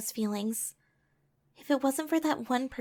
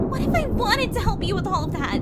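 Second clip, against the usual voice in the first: higher, louder plea; pleading shout; 7 semitones higher, 8 dB louder than usual. Acted. Aurora pleading loudly with Louis, upset. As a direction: push it out hard, hurt.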